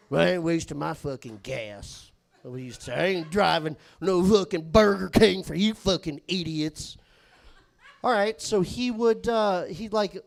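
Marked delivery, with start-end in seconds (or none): 0.1-2.1 slurred redneck refusal; Jacob's redneck grumble. Retold or imitated. Coworker refusing to fetch lunch, redneck grumble. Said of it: "Do one more Jacob one". 2.9-7.0 Jacob's redneck grumble. Retold or imitated. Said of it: "Do one more Jacob one".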